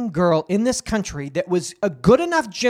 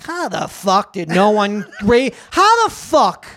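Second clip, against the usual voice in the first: shocked disbelief; 3 dB louder than usual. Retold or imitated. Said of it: "to be like".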